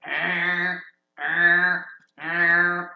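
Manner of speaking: low repeated growls; growling. Acted. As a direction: growl like a guard beast. Guard creature growls before alarm.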